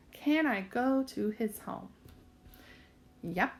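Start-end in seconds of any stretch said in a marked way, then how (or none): 0.1-1.9 slow read-back. Shown as a demonstration. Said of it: "does my sentence make sense".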